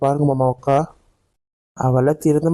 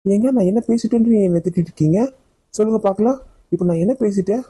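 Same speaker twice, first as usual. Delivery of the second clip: indignant protest; 5 semitones higher than usual. Acted. Wife hurt at being scolded.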